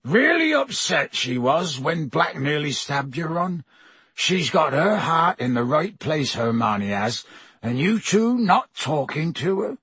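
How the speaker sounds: big, rough-hearted gamekeeper voice; Hagrid voice. Acted.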